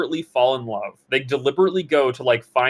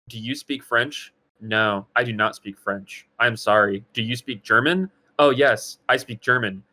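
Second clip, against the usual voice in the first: deadpan emotionless; 3 semitones lower than usual. Shown as a demonstration. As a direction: spell out each word with no feeling. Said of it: "it's so emotionless".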